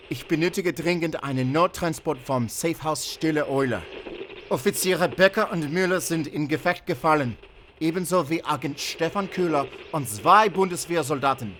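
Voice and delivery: loud, high, hurried German distress call; urgent radio report. Acted.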